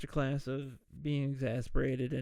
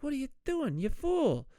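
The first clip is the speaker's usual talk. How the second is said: mock scolding; 10 semitones higher than usual. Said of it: "It's like".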